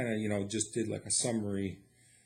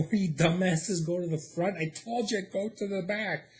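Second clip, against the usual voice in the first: mock scolding; 6 semitones higher than usual.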